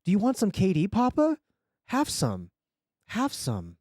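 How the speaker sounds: put-on Russian-accented little boy, starting high. A narrator's reading. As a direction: offer food as a child with a Russian accent. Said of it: "Russian accent".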